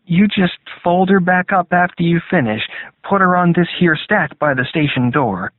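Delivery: high-pitched small-town paperboy; newspaper boy. A narrator's reading. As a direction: pitch it up like a folksy boy giving instructions. Newspaper boy's reply voiced in narration.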